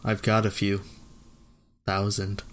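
deadpan flat delivery; monotone reading. Shown as a demonstration. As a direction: read it flat, no emphasis. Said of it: "my monotone, uh, voice".

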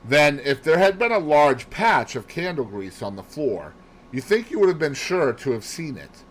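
lightly voiced detective making inquiries; a hint of an inquiring detective; Poirot questioning. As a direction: question a witness methodically.

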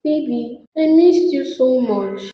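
subdued tearful mourning; crying. Acted. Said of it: "you have to stop crying".

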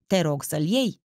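lightly voiced mature man, a touch of stagey tenderness; theatrical affection. A narrator's reading. Older admirer urging the girl to keep his ring, mildly tender. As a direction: coax her gently, with understated theatrical warmth. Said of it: "cu toată afecțiunea teatrală".

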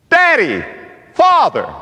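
high, emphatic single-word proclamation; punched pulpit cry; preaching. Real, not acted. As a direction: proclaim each word separately, pitched high. Preaches at full force.

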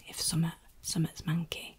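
"summat" whispered in broad Yorkshire, clipped to two syllables. Shown as a demonstration. Yorkshire summat, whispered to contrast with something. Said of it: "not something".

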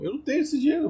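high-pitched whine. Acted. Kid pleads, high voice.

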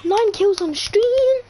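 slow, high, gloating cheer; excited cheer. Real, not acted. Celebrating win on stream.

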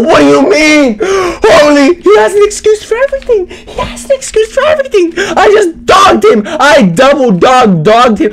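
mock squeaky brag. Put-on high voice bragging about the kill. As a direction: squeak the boasts like a cartoon.

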